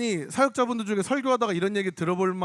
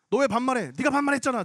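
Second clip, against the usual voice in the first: higher-pitched mock squabble; retold bickering; 4 semitones higher than usual. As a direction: act out an indignant tit-for-tat. Acted quarrel over casual speech.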